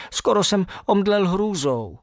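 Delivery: a bit hurt. A narrator's reading. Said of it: "zatvářil jsem se trochu ublíženě".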